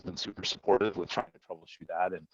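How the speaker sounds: muffled, hollow audio; inside a fishbowl. Real, not acted. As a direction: sound like a bad mic in a bowl. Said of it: "Sean, you sound like you're in a fishbowl".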